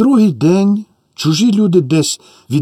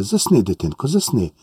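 soft lulling; 4 semitones lower, 4 dB quieter than usual. Acted. Aunt lulls child to sleep.

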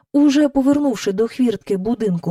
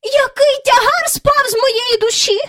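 relieved exclamation; 4 dB louder than usual. A narrator's reading. Miss Lark relieved her dog is back, high sigh.

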